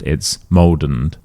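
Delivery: "moldened" slow, d linked straight onto "and"; linked mold and. Shown as a demonstration. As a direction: slowly blend "moldened" as one word. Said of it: "So it's not littered with mold and".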